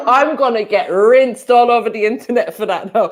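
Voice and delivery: talking through real laughter; giggling at their own joke; laughing. Real, not acted. Caught laughing after mocking her, real laughter.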